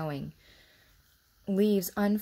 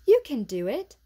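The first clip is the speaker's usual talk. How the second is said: put-on much louder, cheering girl; rally him to stand; loud encouragement; 7 semitones higher, 9 dB louder than usual. A narrator's reading. Mary urging Colin to walk, loud and cheering.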